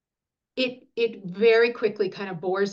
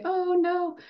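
high, drawn-out sympathetic "oh no"; pitched-up, tender commiseration; 9 semitones higher than usual. Acted. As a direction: coo in sympathy to a hurt baby. Soothing baby after a shot.

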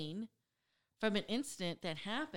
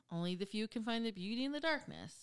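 show sign-off; 3 dB quieter than usual. Acted.

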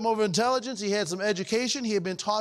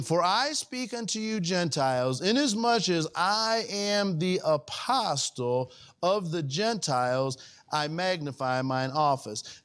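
solemn unhurried scripture read; 2 semitones lower, slower than usual. Acted. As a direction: read the verse slowly, weighing each phrase. Reads Romans scripture aloud.

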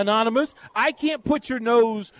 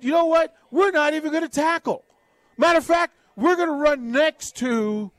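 mock Northwestern defense; 4 semitones higher than usual. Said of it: "Northwestern said".

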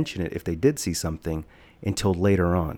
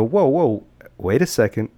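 louder, higher alarmed whoa; alarmed protest; 4 semitones higher, 5 dB louder than usual. Retold or imitated. Five-year-old stopping mom, loud and alarmed. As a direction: stop her mid-sentence in alarm. Kid alarmed by mom's words.

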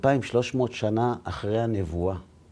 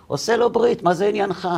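high, louder mock indignation; indignant retort; 10 semitones higher, 3 dB louder than usual. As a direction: snap back as the offended father. Friend's indignant comeback retold. (חיקוי כועס ונעלב, בקול גבוה)

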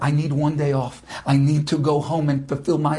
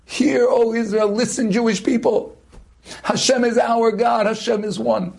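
retold cry; 5 semitones higher than usual. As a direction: call it out for the dying man. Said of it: "You continue screaming for me".

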